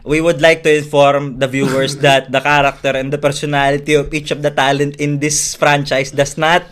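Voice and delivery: tongue-in-cheek official announcement; mock disclaimer. Informing viewers after a risky joke, mock-formal. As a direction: read it out like a formal notice.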